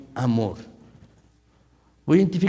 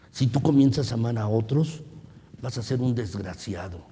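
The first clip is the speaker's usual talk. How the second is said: voicing the evil one; 3 semitones lower than usual. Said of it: "¿sabes lo que dice el maligno".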